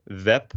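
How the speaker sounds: Dutch "web" said like "vep"; final B as P. Shown as a demonstration. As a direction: end "web" on a voiceless p. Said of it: "it's a P instead of a B".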